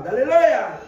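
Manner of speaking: loud, ringing hallelujah; joyful hallelujah shout. Real, not acted. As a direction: lift the church with it. Preacher exclaiming to congregation.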